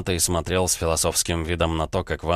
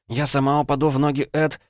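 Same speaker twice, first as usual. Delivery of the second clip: put-on determined girl; 9 semitones higher than usual. A narrator's reading. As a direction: promise it firmly as Vanda. Vanda's voice.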